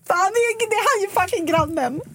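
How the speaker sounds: high, startled gasp of dismay; shocked realization. Retold or imitated. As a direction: squeal it out as the penny drops. Realizing he is her neighbour.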